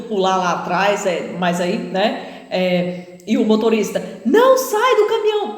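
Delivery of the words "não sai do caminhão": high, loud command; retold shout. Driver yelling at passengers on the cliff, loud shout. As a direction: bark the order to stay put.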